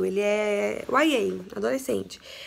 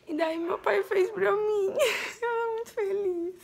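real happy crying, voice much higher; crying with joy; 9 semitones higher, slower than usual. Real, not acted. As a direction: let the tears take the voice. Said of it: "um choro".

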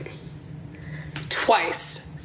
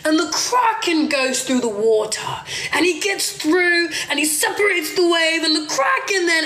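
higher, dramatic nature-show narration, parodied; mock TV documentary narrator; 7 semitones higher than usual. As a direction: ham up the TV voice-over on the kraken. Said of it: "They're like".

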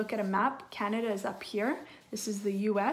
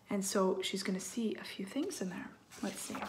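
whispering; 6 dB quieter than usual. Real, not acted. Hushed aside to listening child.

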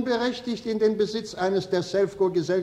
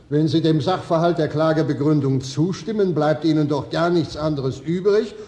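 raised, louder judge's reprimand; stern rebuke; 5 dB louder than usual. Acted. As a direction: come down hard on the lawyer from the bench. Judge rebukes defence counsel.

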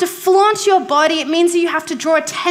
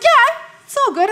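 dad voice; 9 semitones higher than usual. Retold or imitated. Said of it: "And he's like".

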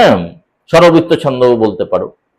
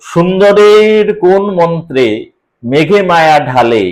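slow poem recitation; slower than usual. Shown as a demonstration. Teacher slowly reciting a verse line to students. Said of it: "এটা দেখো এর কি মাত্রা বসানোর নিয়ম".

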